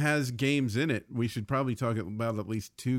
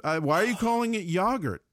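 teasing comeback; 6 semitones higher than usual. Acted. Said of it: "It sounds so funny when you say it".

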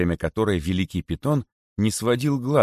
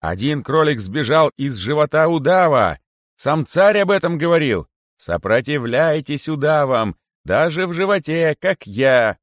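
high, loud rallying cry; yelling appeal; 8 semitones higher, 6 dB louder than usual. A narrator's reading. Rabbit rallies other rabbits from the boa's belly, yelling. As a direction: proclaim it loudly, pitched high throughout. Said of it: "вопил из его живота".

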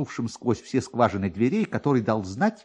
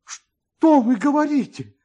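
higher, louder, slow astonished cry; shouted question; 14 semitones higher, 7 dB louder than usual. A narrator's reading. Kovalyov cries out to the officer in loud disbelief. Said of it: "закричал майор Ковалёв".

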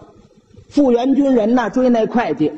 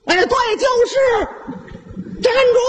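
calling out "stop". Acted. The uncle spots his stolen bike and yells after the rider to stop. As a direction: bellow at the bike thief to stop.

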